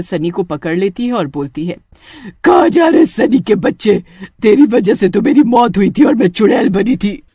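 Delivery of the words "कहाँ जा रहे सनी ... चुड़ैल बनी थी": angry witch. Acted. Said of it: "गुस्से में आ जाती है".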